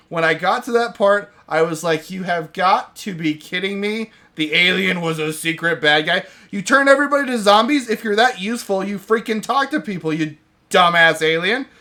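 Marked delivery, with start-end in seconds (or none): 2.1-11.7 mock outrage, louder and higher at the alien; exasperated rant. Retelling her reaction to the plot twist with mock outrage. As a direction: berate the dumb alien like it wronged you. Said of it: "It actively pissed me off".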